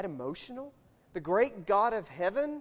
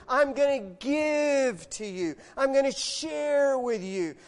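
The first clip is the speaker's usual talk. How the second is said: impassioned divine promise; 4 semitones higher, 7 dB louder, slower than usual. Acted. Voicing God's heart to congregation.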